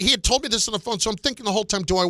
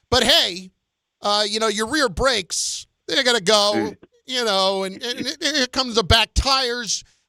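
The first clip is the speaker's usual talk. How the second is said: ordinary talk, nothing marked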